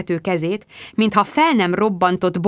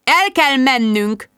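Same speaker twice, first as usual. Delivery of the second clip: slow, mysterious seer voice; mystic voice; 5 semitones higher, slower than usual. A narrator's reading. Jude announcing to friends, in a slow mystic voice. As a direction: intone it like a strange oracle. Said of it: "szólt sajátos, misztikus marcsa hangon".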